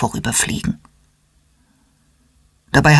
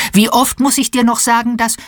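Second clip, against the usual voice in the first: higher, mildly exasperated scolding; a little impatient; 7 semitones higher than usual. A narrator's reading. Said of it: "ein wenig ungeduldig".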